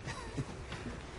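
quiet teasing chuckle; laugh. Acted. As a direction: laugh softly at your own tease. Teasing about heights.

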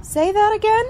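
high, loud, startled question; shocked disbelief. Acted. Roommate hears the aunt wasn't told, shocked. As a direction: demand she repeat it in shock. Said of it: "No, I didn't send the letter".

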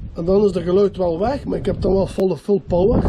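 blustery outdoor wind on mic. Real, not acted. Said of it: "Dat is veel wind".

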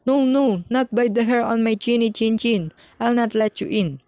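high squeaky defiant pig voice; squeaky little pig. A narrator's reading. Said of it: "squeaked the second little pig".

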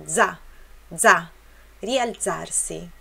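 "za" popped on its own, then a slow "rialzarsi"; explosive Z. Shown as a demonstration. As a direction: drill the plosive Z in "za" and "rialzarsi". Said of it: "Também é explosivo".

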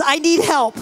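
ordinary talk

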